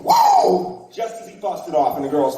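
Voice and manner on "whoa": high Ric Flair woo yell. Retold or imitated. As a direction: let out a high wrestler's woo. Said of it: "Ric Flair has yelled".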